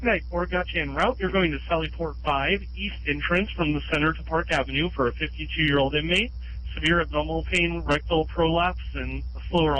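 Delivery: dispatcher voice over a scanner; ambulance radio. Real, not acted. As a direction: read the call out like radio dispatch.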